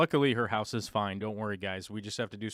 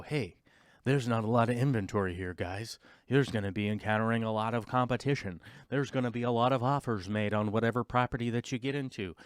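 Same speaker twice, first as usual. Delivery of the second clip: realtor tone. Retold or imitated. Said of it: "why are you talking in that tone".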